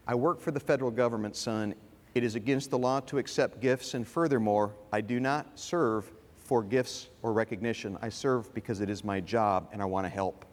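low, measured retold explanation; principled father. Father telling his son why gifts are refused, principled. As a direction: lightly voice a dad laying down principle, pitch dropped.

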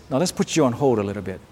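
calm, understated voice of God; voicing God, gently. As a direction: talk it through quietly, like a patient father. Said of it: "Sometimes God says".

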